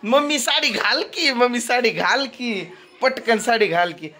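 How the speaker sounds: lightly voiced insistent little girl; imitating Trisha. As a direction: mimic a kid nagging mum, drawing out the plea. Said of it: "तशी त्रिशा कशी म्हणती".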